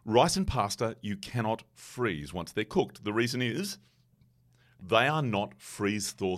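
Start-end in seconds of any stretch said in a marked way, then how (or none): 0.0-3.0 slow, "cannot" hit hard; stress on cannot. Shown as a demonstration. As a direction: lean on "cannot", slowly. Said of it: "I'm just gonna say this again".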